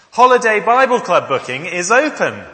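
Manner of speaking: loud, high megaphone announcement; toy megaphone. Shown as a demonstration. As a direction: shout it through a toy megaphone. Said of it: "through this megaphone".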